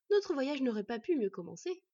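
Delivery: delighted. Acted. Boy railing at his enemy, delighted. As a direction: beam through the words. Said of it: "s'épanouit le garçon".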